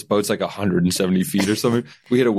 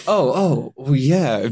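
higher, lightly mocked girlfriend; girlfriend's voice; 6 semitones higher, much slower than usual. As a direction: tease her offhand yes. Girlfriend's mock casual yes.

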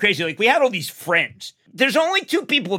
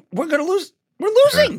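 dramatic Cronkite quote; 11 semitones higher than usual. Retold or imitated. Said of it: "he said".

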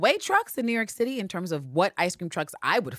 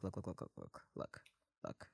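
1 cutting her off; 10 semitones lower, 20 dB quieter than usual. Retold or imitated. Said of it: "And Helena's like".

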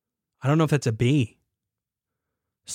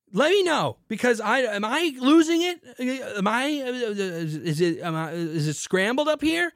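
cracking up in frustration over beer names; getting angry; 9 semitones higher than usual. Real, not acted. Host ranting to co-hosts about sparkling wine, exasperated high-pitched outburst. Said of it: "I don't know why I'm getting angry".

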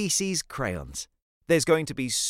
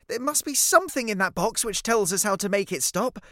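lightly voiced girl, pitched up; anxious young girl; 6 semitones higher than usual. Cece seeking a way to stop it, lightly urgent. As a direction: reason urgently, a hint of a child's voice.

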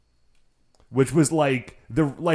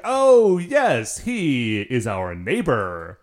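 bright character voice; 4 dB louder, much slower than usual. Acted.

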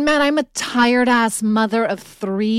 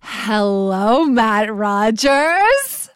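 sultry narrator; 3 dB louder, much slower than usual. Retold or imitated. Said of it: "that sultry voice".

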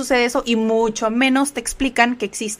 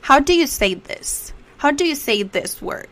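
slowed and higher-pitched teaching example; slow model phrase; 4 semitones higher than usual. Shown as a demonstration. Teacher gives learners questions to practise, slowly.

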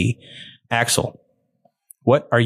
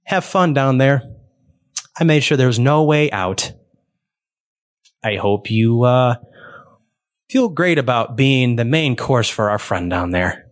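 booming intercom voice; 2 semitones higher than usual. Acted. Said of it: "a voice kind of booming over you, like an intercom-y".

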